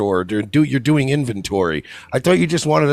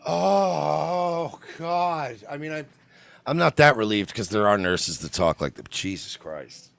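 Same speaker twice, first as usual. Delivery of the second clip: much softer, sinking exasperated groan; appalled mutter; 6 dB quieter than usual. Real, not acted. Host appalled at how nurses talk, soft groan. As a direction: let it drain out in dismay.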